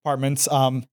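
short of breath after stairs. Real, not acted. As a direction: speak while winded, breath still heavy. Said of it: "Sorry, I, like, ran up the stairs".

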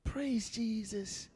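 breathy whispered praise. Real, not acted. Preacher praising under breath, whispered. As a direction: breathe it out, barely voiced. Soft aside after verse.

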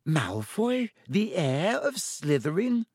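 high, slow incredulous question; skeptical. A narrator's reading. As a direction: draw it out in high-pitched doubt. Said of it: "said Hermione skeptically".

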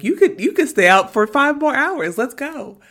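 high-pitched pep talk; self hype-up. Retold or imitated. Drinker to self in the bathroom mirror, high-pitched hyping. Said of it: "hyping myself up".

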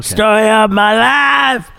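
slow, hammed-up shout; mock yell. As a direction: belt it like a rally yell. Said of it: "Did you just Howard Dean".

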